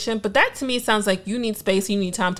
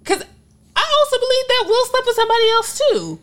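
emphatic; 14 semitones higher, 3 dB louder than usual. Real, not acted. Emphatic opinion.

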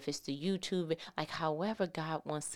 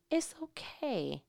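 higher, slow, soothing like a grandma; grandma comforting; 7 semitones higher, slower than usual. Retold or imitated. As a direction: soothe a scared baby. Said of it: "like Grandma used to do".

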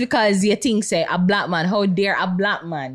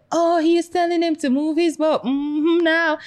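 excited play-by-play; 8 semitones higher than usual. Retold or imitated. Excited retelling of video.

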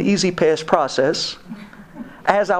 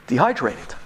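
usual speaking voice

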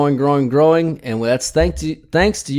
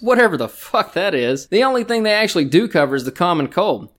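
scripted sponsor pitch; mock ad read; 3 semitones higher than usual. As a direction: sell it like a commercial spot.

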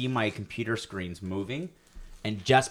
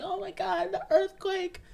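mock panic; slower than usual. Imagined girlfriend crying.

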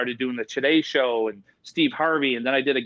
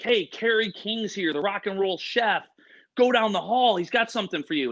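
imitating hyped crew, pitched up; amped up; 5 semitones higher than usual. Show crew sends guest down the hall, amped up. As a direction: announce it like an excited hype man. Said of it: "amped up".

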